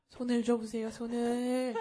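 slow, solemn mock cult leader. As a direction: intone it slowly like a guru. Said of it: "교주 같아요". (교주처럼 느리게 읊조리기)

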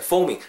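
"foaming" with a slight oo after the o; slight u glide. Shown as a demonstration. Teacher showing the middle sound, "foaming" with an oo glide. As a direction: glide "foaming" through fo-oo-ming. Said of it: "중간에 약간 우 사운드가".

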